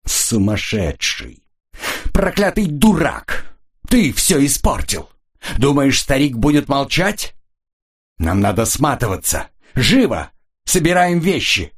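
slow, high, strangled fury; сдавленно и яростно; choked and furious. A narrator's reading. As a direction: rage held in the throat. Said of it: "сдавленно и яростно".

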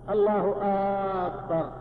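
الله أكبر said "allahu aaakbar"; long opening vowel on أكبر; hamza of akbar lengthened. Shown as a demonstration. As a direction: stretch the first A of أكبر. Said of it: "مد همزة أكبر".

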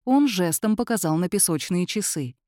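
ordinary delivery

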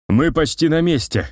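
relieved the goal is near; glad relief. A narrator's reading. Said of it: "обрадовался барон".

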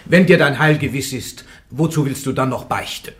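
pressing challenge. Acted. Judge presses Joan on confession.

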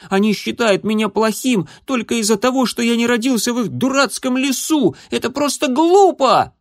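высокий, нарастающий к громкому; котёнок всё сильнее возмущается; возмущённый крик котёнка. A narrator's reading. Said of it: "крикнул он". (котёнок кричит от обиды)

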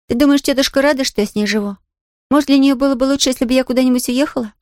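put-on a young girl nervously asking; worried Pollyanna. Pollyanna asks Nancy about her aunt, anxious girlish voice.

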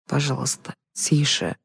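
soft, subdued plea; hushed pleading. A narrator's reading. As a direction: beg them to keep it down. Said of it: "взмолился профессор".

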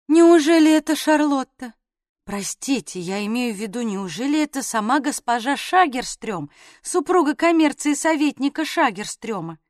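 lisping little voice, fawning; sugary, lisping feigned surprise; slushy lisp. Acted. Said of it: "послышался шепелявый голосок".

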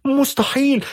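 high-pitched cry of disbelief; a frantic mother screaming it can't be true. A narrator's reading. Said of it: "فصرخت والدتها". (صرخة أم مذعورة بصوت حاد)

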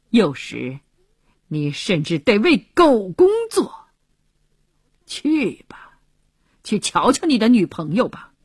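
biting mockery with heavily leaned-on words; sarcastic jibe. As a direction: needle him about his girlfriend and his duty. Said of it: "以挖苦的口吻继续说着".

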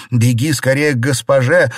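loud, high urgent shout. A narrator's reading. Xiren shouting at the servant girl to run. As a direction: yell for help. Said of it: "закричала Сижень".

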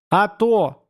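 sudden angry outburst. A narrator's reading. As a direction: explode at him. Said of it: "внезапно взорвалась Устинья".

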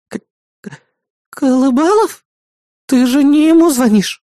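high, frightened stammer; stammering fright. Acted. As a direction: panic as the name sinks in. Бисмарк в ужасе заикается. (испуганно заикаясь, высоким голосом)

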